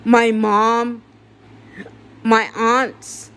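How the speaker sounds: grieving patient shouting down the hospital that failed her family; angry rant. Real, not acted. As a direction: let the anger at the hospital boil over.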